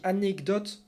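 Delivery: "anecdote" said deliberately, every syllable placed; careful demonstration of "anecdote"; conscious correct pronunciation. Shown as a demonstration. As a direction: pronounce "anecdote" with conscious care. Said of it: "en y pensant, que je, sachant que je fais une erreur".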